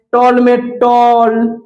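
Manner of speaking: टॉल said slowly, its अ vowel stretched; slow demonstration of टॉल; open vowel shown. Shown as a demonstration. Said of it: "अ आ रहा है".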